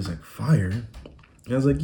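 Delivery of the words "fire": imitated British accent, puzzled question. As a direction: say it like a baffled Brit. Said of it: "like, the legit accent".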